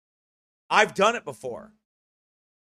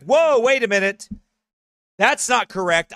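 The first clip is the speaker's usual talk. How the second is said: startled self-catch; 4 semitones higher, 8 dB louder than usual. Retold or imitated. Acting out catching himself.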